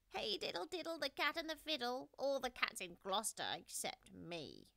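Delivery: high, lilting nursery rhyme; sing-song, then sulky at the end; wistful rhyme. A narrator's reading. Simpkin watching the dancing cats, wistful sing-song. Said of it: "said Simpkin".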